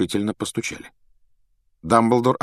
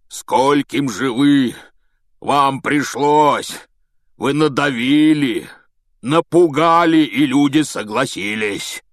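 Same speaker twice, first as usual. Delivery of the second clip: slow, loud, higher accusation; Hagrid enraged; 6 semitones higher, 6 dB louder, slower than usual. A narrator's reading. Hagrid accusing Malfoy, enraged shouting. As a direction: hurl it at him.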